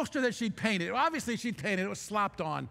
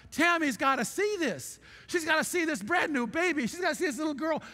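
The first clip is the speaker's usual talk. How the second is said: excited; 6 semitones higher than usual. Retold or imitated. Excited retold thought.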